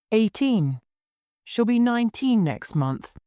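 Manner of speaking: a touch of tearfulness, kept in check; holding back tears. A narrator's reading. Girl answers inspector about missing friend, trying not to cry. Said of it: "trying not to cry".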